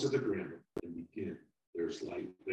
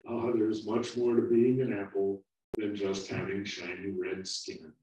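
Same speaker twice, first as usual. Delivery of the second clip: gentle; 5 dB louder than usual. Acted. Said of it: "The older apple gently replied".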